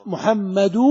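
محمد with its final "du" held open; vowel on the dal. Shown as a demonstration. Teacher answering on the last vowel, محمد ending in "-du". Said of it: "حركة الدال".

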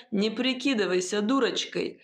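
plain reading voice

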